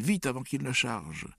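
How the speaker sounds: high, alarmed warning; urgent yell. A narrator's reading. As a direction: urge them on before disaster. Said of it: "hurla-t-il".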